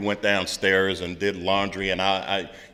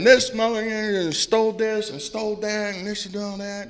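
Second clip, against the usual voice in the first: much higher pitched, heated retold rant; mock-indignant venting to the sponsor; an outraged complaint, pitched way up but not shouted; 11 semitones higher than usual. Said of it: "listening to me vent".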